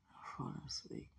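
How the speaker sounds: soft drowsy whisper. Real, not acted. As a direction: breathe it out, half asleep.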